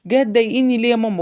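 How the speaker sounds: quick mock complaint of a grumpy teen; imitating annoyed son. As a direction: rattle off a whiny protest, lightly mimicked. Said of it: "يكلمني ان هو متضايق". (تقليد خفيف لابن متضايق بيشتكي بسرعة)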